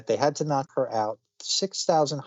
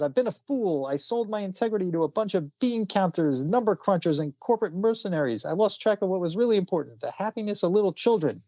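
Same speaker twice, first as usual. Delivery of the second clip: higher, impassioned Santa proclaiming his change of heart; inspired Santa; 6 semitones higher than usual. Acted. Retelling the comic's Santa vowing to save Christmas, impassioned and higher. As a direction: let Santa's voice rise with newfound conviction.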